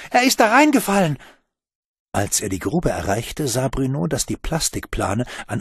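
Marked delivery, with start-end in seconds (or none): 0.1-1.2 high, loud panicked cry; frightened call. Acted. Juliette calls to Bruno in panic. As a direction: shout it out in alarm. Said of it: "rief sie".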